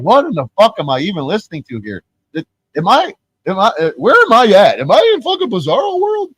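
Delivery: rising to a high, loud disbelief; incredulous outburst. Retold or imitated. Retelling own baffled outburst at stream.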